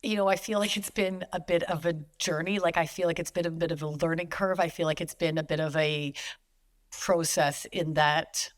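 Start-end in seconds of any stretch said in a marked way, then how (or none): 2.6-8.5 Canadian o in process; Canadian accent. Real, not acted. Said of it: "there's my Canadian accent".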